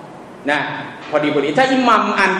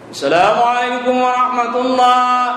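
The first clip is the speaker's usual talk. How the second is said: imam's closing salam; 4 semitones higher than usual. Shown as a demonstration. Imitating imam ending prayer quickly.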